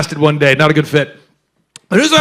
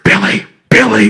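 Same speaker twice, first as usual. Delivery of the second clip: sad catchphrase; 2 semitones higher, 4 dB louder than usual. Retold or imitated. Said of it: "I say Billy when I get sad".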